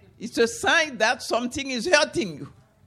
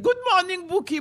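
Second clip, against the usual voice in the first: cheeky calf; 6 semitones higher, faster than usual. Acted. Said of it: "the calf said".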